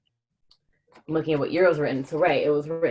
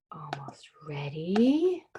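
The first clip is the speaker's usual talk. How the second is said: whisper; much slower than usual. Real, not acted. Aside while setting up.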